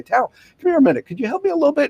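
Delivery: lightly acted call to a coworker for help; calling over. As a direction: hail a colleague passing by. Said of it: "So I say".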